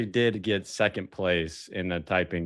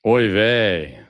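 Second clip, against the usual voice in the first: put-on Yiddish accent; 6 dB louder than usual. Yiddish exclamation, loud.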